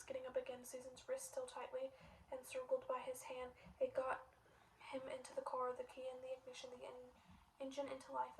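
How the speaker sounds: story reading. Acted. Reads novel chapter aloud.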